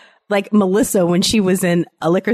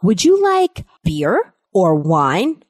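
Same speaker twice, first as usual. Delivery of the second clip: son playing waiter; 7 semitones higher than usual. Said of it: "So he'll be like".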